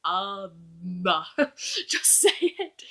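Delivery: a hint of a straining cartoon voice; lightly voiced cartoon villain; imitating Plankton. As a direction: struggle to get the word out like Plankton. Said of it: "like Plankton ... trying to say".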